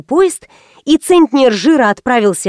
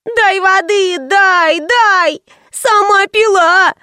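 much higher, insistent whiny demand; capricious child; 9 semitones higher, much slower than usual. Acted. Girl nags mother for water, whining. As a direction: whine and repeat like a spoilt kid. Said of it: "продолжала капризничать".

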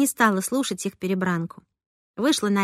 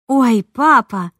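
touched; 7 dB louder, much slower than usual. A narrator's reading. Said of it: "растрогалась я".

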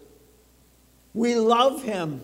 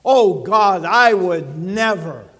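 louder mock vow to God; mock pronouncement; 5 dB louder than usual. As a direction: declare it like a churchgoer's big promise. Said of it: "made a pronouncement like that".

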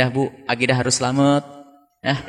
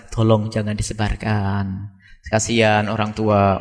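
slow, lower-pitched mock plea; pleading message; 4 semitones lower, slower than usual. Opponent begging that the video not be shared, mock pleading. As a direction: imitate someone asking a favour, slowly and low. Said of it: "ada pesan".

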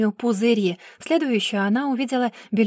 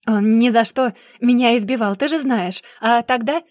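shouting excuse; 3 semitones higher, 6 dB louder than usual. Acted. Brother shouts back.

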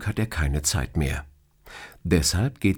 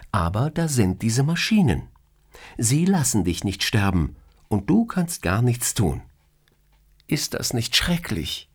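higher, playful female voice, mock scolding; teasing boss; 5 semitones higher than usual. Boss teasing her employee about his dream, playfully higher. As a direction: tease him like an amused boss. Boss describes coma scenario.

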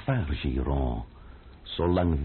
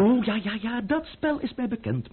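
mocking; 13 semitones higher than usual. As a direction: sneer that you know his game. Mocking his transparent scheme.

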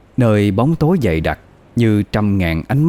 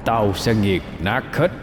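hoarse demon growl; 6 dB quieter than usual. Acted. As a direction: sneer like a beast hissing. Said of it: "giọng khàn đặc như lửa than bị dội nước". (giọng khàn đặc gầm gừ)

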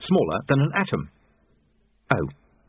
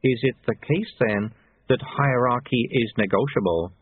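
thoughtfully. Acted. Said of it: "rather more thoughtfully".

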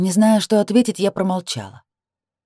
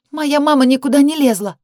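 high furious shout; 9 semitones higher, 5 dB louder than usual. A narrator's reading. Sister shouts back.

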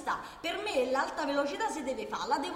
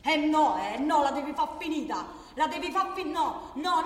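loud "Eh no"; angry rebuke; 4 dB louder than usual. Acted. Worker telling her colleague to stop, loud and angry. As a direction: cut him off angrily. Shouting at coworker.

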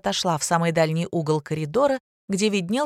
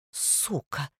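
a much softer venomous hiss; hissed curse; 3 semitones lower, 9 dB quieter than usual. Acted. A girl cursing the teacher from the side, hissed. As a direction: spit it out under your breath. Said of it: "прошипели сбоку".

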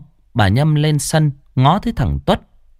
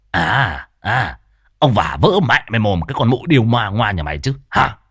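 cursing. Acted. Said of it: "lao vào nhau mà chửi".

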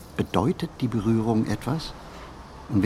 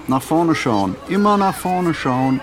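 put-on louder, higher call to children walking ahead; teacher calling out; 8 semitones higher, 5 dB louder than usual. Kindergarten teacher calling to the children in front, loud and higher. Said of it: "ruft den vor ihr laufenden Kindern zu".

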